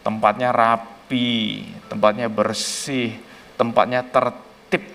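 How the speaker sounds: slow and soft, savouring each word; dreamy answer. Retold or imitated. Child tells the pastor why he loves Singapore, slow and soft. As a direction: list it slowly like a happy memory.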